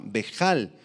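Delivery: bejal aislada, jota suave y acento en la á; palabra aramea. Shown as a demonstration. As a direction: repite bejal marcando la á. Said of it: "con H y acento en la A". (bejal, "bejál" claro)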